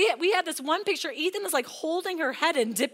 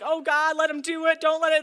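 loud, urgent praying out; fervent prayer; 5 dB louder than usual. Retold or imitated. Mother praying loudly for son's swim test. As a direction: cry out to God in earnest. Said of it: "praying in the spirit".

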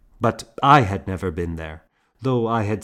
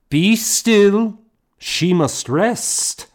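high, loud command, slower on the second; commanding order; 13 semitones higher, 7 dB louder, slower than usual. A narrator's reading. Morgan ordering the women away from Edith, loud. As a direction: order the crowd to be still.

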